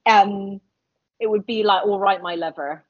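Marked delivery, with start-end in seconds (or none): 1.9-2.8 a hint of Gloucestershire burr; lightly put-on Gloucestershire local; Gloucestershire accent. Shown as a demonstration. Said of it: "it's kind of that Gloucestershire accent".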